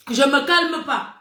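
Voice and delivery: slow, drawn-out stubborn refusal; very angry. Real, not acted. Streamer refusing to calm down, angry. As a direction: dig in, word after word. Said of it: "Je suis trop fâchée".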